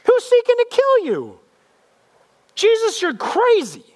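very high, mock-outraged crowd yell; jeering crowd. Crowd jumps in on Jesus, high outraged jeering. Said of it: "the crowd jumps in now".

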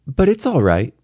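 put-on little girl easing a worry; reassuring. A narrator's reading. Daughter reassuring her father, lightly reassuring. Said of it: "she reassured me".

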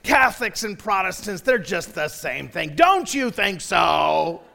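lightly hammed-up blowhard; drawn-out, mildly mocking put-on voice; loudmouth passenger. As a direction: imitate an opinionated seatmate, stretching the last words. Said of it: "he goes like this".

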